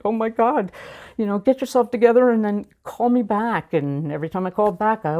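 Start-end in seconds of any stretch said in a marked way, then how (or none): 0.0-3.7 lightly mimicked sister, higher-pitched and urgent; retold exasperated sister. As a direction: imitate a sister urging someone to pull herself together. Exasperated sister answers tearful call.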